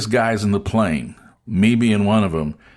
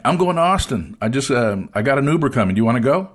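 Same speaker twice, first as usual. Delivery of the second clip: retold call across a room, pitched higher; 4 semitones higher than usual. Traveler answers a stranger twenty yards away, calling out.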